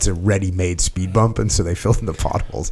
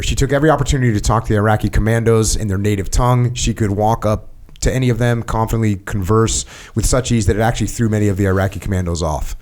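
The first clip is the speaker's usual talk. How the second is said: steady, slightly lifted read-aloud voice; reading aloud from a book. Acted. Host reading a book passage to his guest, read-aloud voice. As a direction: read the written account evenly, phrase by phrase.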